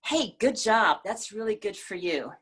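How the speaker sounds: sincere praise. Shown as a demonstration. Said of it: "Normally, we think about it in terms of".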